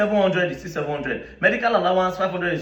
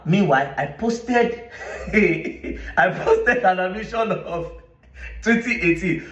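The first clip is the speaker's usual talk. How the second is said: laughing; 3 semitones higher, slower than usual. Real, not acted. Gloating over his trap.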